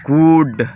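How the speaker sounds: گوڈ with a drawn-out OO, as "good"; long OO sound. Shown as a demonstration. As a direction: hold the OO in گوڈ. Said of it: "او کی آواز دیتا ہے". (گوڈ میں پیش والی لمبی آواز)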